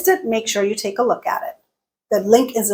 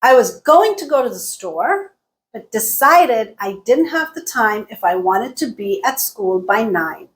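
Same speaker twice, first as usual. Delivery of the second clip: GOING, STORE, DECIDED, DIDN'T, TIME stressed, rest reduced; content words stressed. Shown as a demonstration. Teacher modelling the longest sentence, content words stressed. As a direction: beat out the content words, squeeze the small ones. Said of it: "Going and store got stressed".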